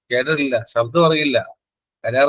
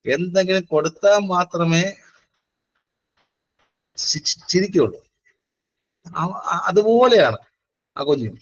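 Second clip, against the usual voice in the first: lightly acted offended relative, higher pitch; grumbling relative; 5 semitones higher than usual. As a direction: play a miffed visitor complaining, pitched up. Acting out offended visiting relative's grumbling. (പരിഭവം പറയുന്ന ബന്ധുവായി ചെറുതായി അഭിനയിച്ച്)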